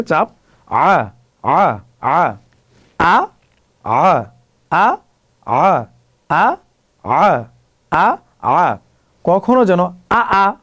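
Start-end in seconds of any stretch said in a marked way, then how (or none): 0.7-8.8 আ said with a strained throat catch, lower in pitch; throat friction on ain. Shown as a demonstration. Teacher drilling the ain sound, throaty and strained. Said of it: "আইনটা গলায় একটা ঘষা দিয়ে আসবে". 10.1-10.5 আ said as a plain open vowel with no throat catch; wrong plain a. Shown as a demonstration. Teacher demonstrating the mistake, plain open vowel. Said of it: "এইভাবে না হয়".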